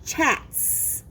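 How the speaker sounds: Chats whispered, with a clear hissing s at the end; whispered word model. Shown as a demonstration. Teacher whispering the word to the class. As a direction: breathe out Chats with a sharp final s. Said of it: "The next word is chats".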